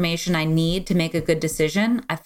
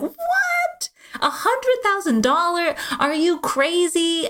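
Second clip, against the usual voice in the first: high-pitched, incredulous mock outrage; retold outraged disbelief; 12 semitones higher, much slower than usual. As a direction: replay the shocked reaction to the price, half laughing. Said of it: "just got really mad".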